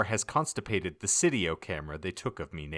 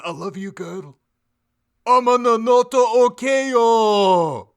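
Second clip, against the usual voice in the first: higher, louder hammed-up incantation shout; screamed spell; 13 semitones higher, 10 dB louder than usual. A narrator's reading. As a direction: belt the spell like a rock frontman. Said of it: "Then he screamed".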